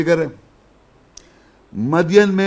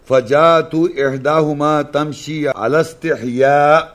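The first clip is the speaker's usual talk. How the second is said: Quran recitation. Acted. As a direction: recite the verse solemnly, holding the long vowels. Recites Quran verses in Arabic. (عربی میں قرآن کی تلاوت)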